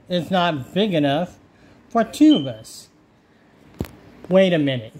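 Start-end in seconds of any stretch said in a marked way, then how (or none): 1.9-2.9 dramatic challenge. Acted. Lion challenging owl, showdown line.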